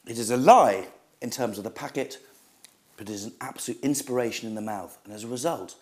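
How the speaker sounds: hushed food rapture. Acted. Snack reviewer swooning over chocolate to viewers, hushed and rapturous. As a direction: savour every word as if tasting heaven.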